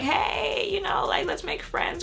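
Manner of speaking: high-pitched, over-friendly mock greeting; mock party friendliness. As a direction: send up an eager party greeting. Mocking movie-party friendliness.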